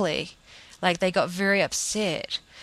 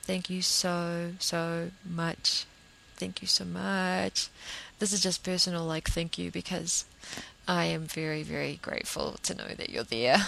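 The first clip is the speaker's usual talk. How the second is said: soft, sincere gratitude; heartfelt thanks; 4 dB quieter than usual. Real, not acted. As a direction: thank them quietly and personally, taking your time. Personal thanks to the listeners.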